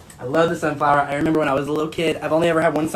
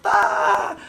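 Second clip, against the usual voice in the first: mock scream; 2 semitones higher than usual. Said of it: "and you're like".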